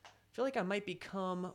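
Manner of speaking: reading it out in a goofy mock Newfoundland accent; stupid Newfie accent. Reading a viewer's comment aloud, in a mock Newfoundland accent. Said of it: "I did a really stupid accent".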